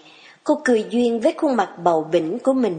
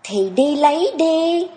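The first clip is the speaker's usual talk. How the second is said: higher and slow, dismissive; a touch of bossy girl; 6 semitones higher than usual. A narrator's reading. Young woman shoos the lingering farmhand, slow and dismissive. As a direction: shoo him off lazily.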